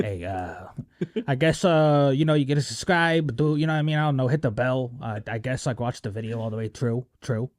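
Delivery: put-on lightly done Italian-American mobster accent, casual and shrugging; a hint of a New York Italian mobster plugging his channel; mock Italian mobster. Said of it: "like, Italian mobsters".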